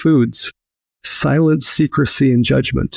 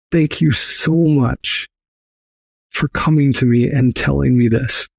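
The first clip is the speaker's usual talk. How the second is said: getting emotional. Real, not acted. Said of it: "I'm getting a little emotional".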